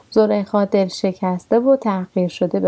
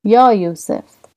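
a drawn-out, louder call of his name; 5 dB louder, slower than usual. Acted. Zulaikha calling out to Yusuf on his road, loud slow cry. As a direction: call after him as he passes. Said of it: "فریاد زد".

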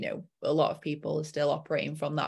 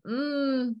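mocking inner critic; 2 semitones higher than usual.

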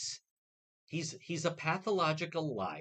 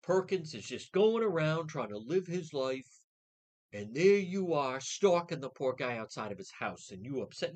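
sarcastic mimicry. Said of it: "look at the way they frame that".

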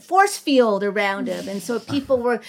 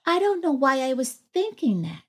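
put-on mildly sad child; 3 semitones higher, 3 dB quieter than usual. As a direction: say it like a small boy who feels bad. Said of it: "looked at me with this really sad face".

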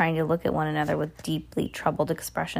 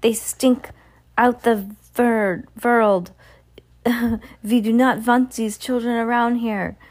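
put-on higher, witchy accented rant; screamed disgust; 6 semitones higher, 4 dB louder than usual. A narrator's reading. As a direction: raise it into an outraged mock scream. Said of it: "she screamed".

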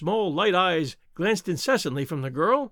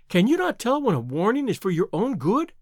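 rising, pleading warning; urgent warning; 4 semitones higher than usual. Acted. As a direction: beg him to flee tonight. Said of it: "she cried".

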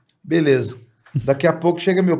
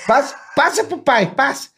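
high, coaxing dad asking for the ball; lightly voiced father, higher; playful father; 9 semitones higher than usual. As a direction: call for the ball like a jolly father.

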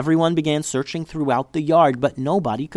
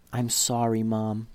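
whispered; 5 dB quieter, slower than usual. Acted. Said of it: "She handed the box to her mom and whispered".

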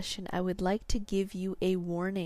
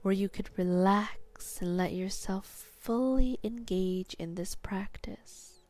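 hypnotherapist whisper. Acted. Hypnosis session begins.

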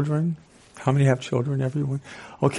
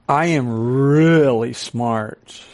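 mock boast; much slower than usual. Real, not acted. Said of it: "ironic self-claim".

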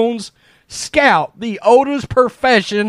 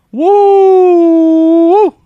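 excited whoop; 8 semitones higher, 6 dB louder than usual. Real, not acted. Reacting to Jerry scandal tweets.

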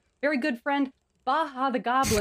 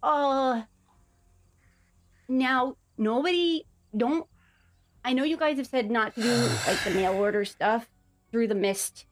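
slightly higher, hesitant goblin voice; a hint of a worried little goblin; nervous goblin; 4 semitones higher than usual. Plays Baha the goblin.

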